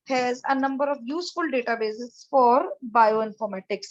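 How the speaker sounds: reading the slide aloud word by word, slowly; slow, careful English read from the screen. Shown as a demonstration. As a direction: spell it out slowly for the class. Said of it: "जैसा कि मैंने अभी आपको बताया भी था".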